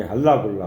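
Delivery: ordinary talk, nothing marked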